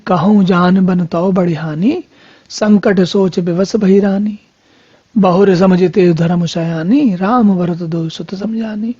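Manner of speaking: slow scriptural couplet, line endings held long; verse recitation. Acted. Preacher reciting Kaushalya's dilemma to listeners, slow verse recitation. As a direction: recite it in measured, stretched syllables.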